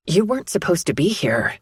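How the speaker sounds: defensive. Acted. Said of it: "I defend".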